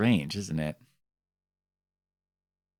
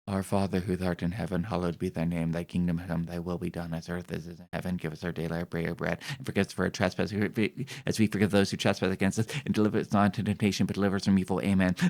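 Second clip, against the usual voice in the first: reciting a prayer; 2 semitones lower, faster than usual. Shown as a demonstration. Reciting the Our Father for grandma watching. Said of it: "Let me hit you with an Our Father".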